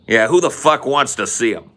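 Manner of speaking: scornful comeback. Acted. Answering a boast about sandy beaches, acted scorn. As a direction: throw it back with acted contempt.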